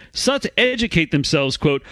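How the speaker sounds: put-on British accent for a woman's voice; lightly hammed-up British lady; mock British woman. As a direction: imitate her in a British accent. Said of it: "like a prostitute on a British railway".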